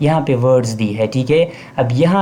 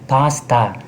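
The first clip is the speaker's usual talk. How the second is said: पास्ता in two beats, paas-ta; syllable demo; slower than usual. Shown as a demonstration. Teacher giving a two-syllable example, syllable demo. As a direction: sound out both syllables of पास्ता. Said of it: "दो syllable है".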